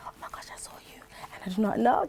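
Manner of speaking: fast breathless whisper; mock fan whisper. Mocking a shy fan who only DMs her, whispered. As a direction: gush it under your breath.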